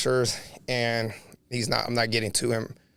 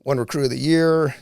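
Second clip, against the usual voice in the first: rapid-fire pleading; 4 dB louder than usual. Retold or imitated. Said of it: "shotgun blasting".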